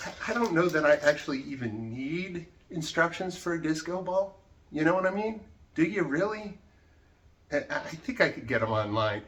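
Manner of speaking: worked-up ranting, building in force; mildly worked up, punching the key words; getting worked up. Real, not acted. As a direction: rant with rising exasperation. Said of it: "I'm getting worked up".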